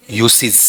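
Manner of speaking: "यूसेज" with a clear s in the middle, YOO-siz; correct pronunciation. Shown as a demonstration. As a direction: model "यूसेज" as "यू-सिज़". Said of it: "इसका उच्चारण". ("यूसेज" का सही उच्चारण, "यू-सिज़")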